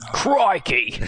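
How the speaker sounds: exaggerated Aussie cry; mock Australian accent. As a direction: call it out in a hammed-up Australian accent. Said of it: "do an Australian accent".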